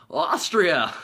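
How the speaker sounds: "Austria" swooping up, then falling, drawn out; imitated excited echo. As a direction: echo "Austria" with goofy delight. Carrey echoes her answer with delight.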